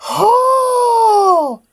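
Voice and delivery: bitter accusing character, rising to panicked cries for help. Acted. Game character accusing the player, then pleading for help. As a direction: start resentful, then break into desperate pleas. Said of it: "I gotta do the voice now".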